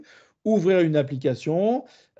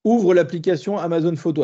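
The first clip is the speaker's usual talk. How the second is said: clear, slightly louder command to the assistant; 3 dB louder than usual. Shown as a demonstration. Teacher showing the class a spoken command to Siri, clear and firm. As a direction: give Siri the order cleanly. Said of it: "on peut essayer, par exemple".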